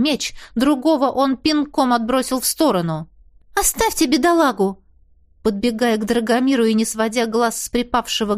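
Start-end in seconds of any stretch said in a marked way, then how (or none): 3.5-4.8 demanding cry. A narrator's reading. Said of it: "потребовала я".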